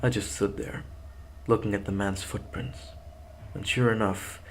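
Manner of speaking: steady horror story reading; story narration. A narrator's reading. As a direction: read it like a creepy tale. Story narration before plain outro.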